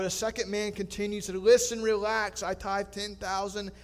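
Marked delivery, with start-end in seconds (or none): 1.4-3.7 smug calm. Acted. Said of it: "acting so calmly".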